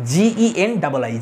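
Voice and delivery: letters spelled out slowly one by one; dictating letters slowly; slow spelling. Shown as a demonstration. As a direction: spell জিইএন double I slowly for the class. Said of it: "spelling the word out".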